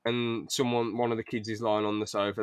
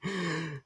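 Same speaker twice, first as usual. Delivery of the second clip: soft, higher laugh; burst of laughter; 6 semitones higher, 8 dB quieter than usual. Acted. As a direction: let out a quiet laugh in character. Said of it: "Jim bursts out laughing".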